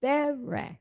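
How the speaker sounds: Berech with the first syllable BE stressed. Shown as a demonstration. Teacher corrects the stress for a student. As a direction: hit BE in Berech, leave the end light. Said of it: "don't accent the last syllable".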